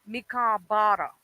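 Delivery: "Me can't bother" in a light Jamaican lilt; lightly Jamaican "Me can't bother"; Jamaican phrasing. Shown as a demonstration. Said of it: "In Jamaican, it's".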